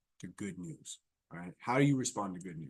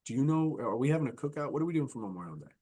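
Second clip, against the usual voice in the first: convo killer; 4 semitones higher, 4 dB louder than usual. Shown as a demonstration. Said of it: "I'm a convo killer".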